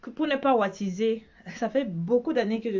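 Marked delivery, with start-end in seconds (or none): 0.0-1.2 imitating a small girl's curious question; little girl asking. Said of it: "une petite là qui m'a demandé".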